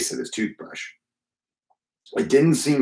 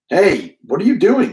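sister demands, much higher and louder; demanding; 8 semitones higher, 5 dB louder than usual. A narrator's reading. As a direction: catch him in the act and call it out. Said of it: "she demanded".

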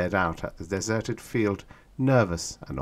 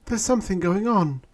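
higher, louder nervous voice; 13 semitones higher, 5 dB louder than usual. A narrator's reading. Woman passenger to the cabin, nervous. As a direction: say it uneasily, peering out. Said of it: "a woman passenger said nervously".

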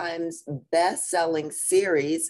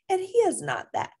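frazzled mama. Acted.

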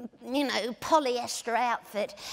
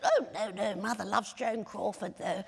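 Kay Clark; 2 semitones lower, 4 dB quieter than usual. Retold or imitated. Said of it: "She went".

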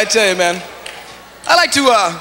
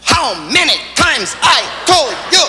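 each word separated, slow and higher; words broken up; 5 semitones higher, slower than usual. Retold or imitated. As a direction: scold by chopping "How many times I told you" word by word. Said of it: "she started breaking up the words".

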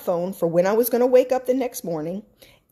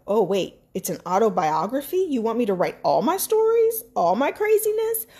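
rising, rushed alarm at the idea; half-acted shock at God's request; retold panicked disbelief; 2 semitones higher than usual. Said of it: "This book was almost like".

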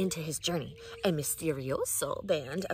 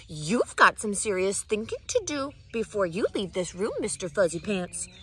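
lecturing; 3 dB louder than usual. Acted. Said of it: "The lecture went on".

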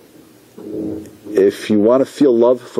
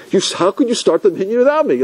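a mild mock yell, pitched higher; mock screaming; 7 semitones higher than usual. Latecomer yelling at the gabbai in front of everybody, mild mock yell. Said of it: "he started screaming".

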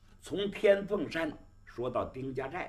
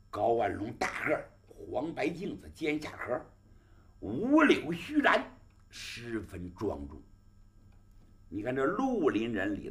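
gravelly dramatic storyteller. A narrator's reading. Pingshu storyteller narration.

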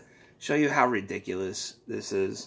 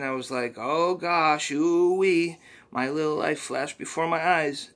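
a hint of the squeaky sidekick, earnest; understated cartoon helper voice; lightly voiced Poopy Butthole; 5 semitones higher, 4 dB louder than usual. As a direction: plead for help gently. Mister Poopy Butthole's plea.

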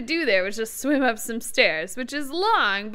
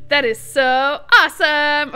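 loud, laughing and thrilled; laughing relief; 3 semitones higher, 8 dB louder than usual. Real, not acted. Finds the exit, laughing.

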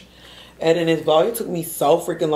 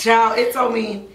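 laughing; 6 semitones higher, 6 dB louder than usual. Real, not acted.

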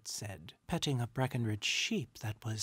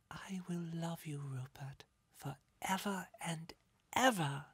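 put-on soft, higher-pitched girlish devotion; tender little sister; 6 semitones higher, 4 dB quieter than usual. A narrator's reading. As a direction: promise it gently, like a loving child. Little sister's loving promise.

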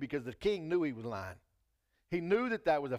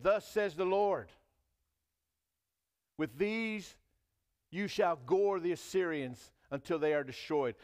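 proclaiming prophet; 4 semitones higher, 4 dB louder than usual. Acted. Prophet quote, declaiming.

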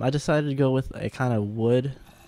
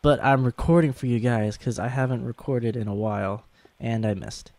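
sore throat, a bit hoarse; sick voice. Real, not acted. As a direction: talk through a sore throat. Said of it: "Sorry if, um, I sound sick".

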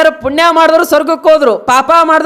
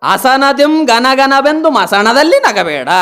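recited verse; slower than usual. Retold or imitated. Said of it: "ಅದಕ್ಕಾಗಿ ಹೇಳಿದ್ರೆ ಅವರು".

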